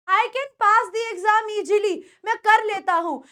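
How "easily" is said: easily with a J, "ee-jee-lee"; common mispronunciation. Retold or imitated. Teacher mimics a student's sentence, easily said with a J. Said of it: "कई लोग क्या करते हैं".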